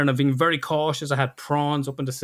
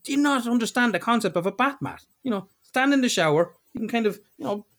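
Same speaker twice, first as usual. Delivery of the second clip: higher-pitched retold telling-off; mock lecture to someone hopeless; exasperated lecture; 5 semitones higher than usual. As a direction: spell out the obvious, exasperated. Acts out lecturing partner on bathmat.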